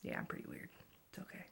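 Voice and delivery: very soft low mumble; quiet mumble. Real, not acted. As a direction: mumble it under your breath. Self-deprecating aside.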